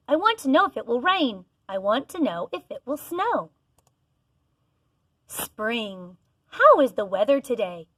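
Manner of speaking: clear, sing-song picture book read-aloud; reading to children. Acted. Teacher reading a weather book to her class, sing-song.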